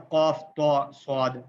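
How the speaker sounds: قاف، تو، صاد said full and heavy; bold letters. Shown as a demonstration. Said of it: "bold letters ہیں".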